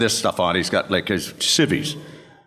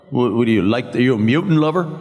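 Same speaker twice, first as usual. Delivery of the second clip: rising, louder challenge; confrontational taunt; 2 semitones higher, 4 dB louder than usual. Retold or imitated. Biker challenging the man at the pool table, taunting. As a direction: pick a fight with a loaded question.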